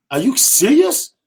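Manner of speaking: slow, high-pitched disbelief; incredulous question. Retold or imitated. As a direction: act out a boss stunned by the news. Boss learns of the layoff.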